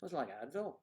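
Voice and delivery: attempted Irish lilt; playful Irish accent. Shown as a demonstration. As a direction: put on a soft Irish lilt with swooping endings. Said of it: "there you go, it's Irish".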